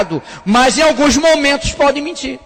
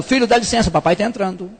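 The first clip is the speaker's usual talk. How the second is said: gentle knock; 2 semitones lower, 3 dB quieter than usual. Retold or imitated. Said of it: "Bata na porta e já vai entrando".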